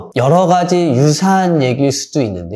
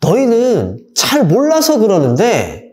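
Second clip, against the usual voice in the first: 1 dismissive parent; 5 semitones higher, slower than usual. Shown as a demonstration. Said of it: "절대 말하면 안 되는 첫 번째가".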